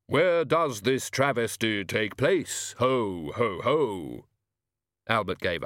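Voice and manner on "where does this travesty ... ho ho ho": slow, portentous demand with mirthless laugh; outraged Death. Acted. Death demanding where the travesty happens, outraged. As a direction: demand it in drawn-out, weighty words.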